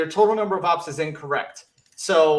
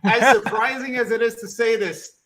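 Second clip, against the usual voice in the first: excited announcement; 4 semitones higher, 4 dB louder than usual. Real, not acted. Announcing a surprise third straight win.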